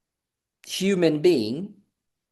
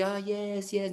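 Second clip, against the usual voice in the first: tag; 3 semitones higher, 10 dB quieter than usual. Retold or imitated. Retold listening to a visitor.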